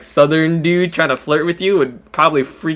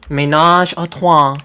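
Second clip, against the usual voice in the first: put-on higher French accent, copied from a recording; imitated French pronunciation; 4 semitones higher, 3 dB louder than usual. Friend copying how she says it, imitated French accent. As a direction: mimic a Frenchwoman's careful pronunciation. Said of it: "That's how she says it".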